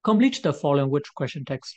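the exercise heading read out very slowly; slow read instruction. Shown as a demonstration. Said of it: "reads exercise instruction slowly".

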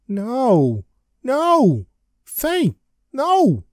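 rising hammed-up shouts of no; mock desperate cry. Larry calling after Faith as she walks away, hammed-up wailing no. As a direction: wail after her as she leaves.

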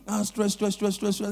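mock whisper. Whispering gibberish again.

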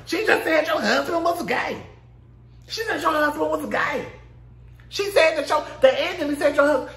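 high, laughing insistence; laughing mock explain. Cast telling Kenya the gay rumor, high and laughing. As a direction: spell it out through laughter. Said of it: "everybody like".

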